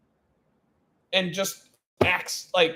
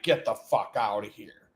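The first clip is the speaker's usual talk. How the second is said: hushed amazement; 6 semitones lower, 5 dB quieter than usual. Retold or imitated. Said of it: "and I'm like".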